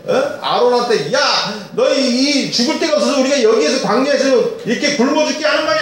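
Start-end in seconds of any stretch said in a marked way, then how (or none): 1.1-5.8 high, fast complaining crowd at Moses; mock grumbling from the hungry crowd; Israelites grumbling. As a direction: whine up at Moses and Aaron. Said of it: "하면서 막 원망했다고".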